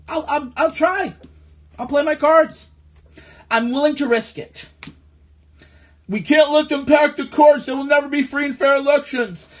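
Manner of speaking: mocking scared voter. Parodies a fearful Republican voter.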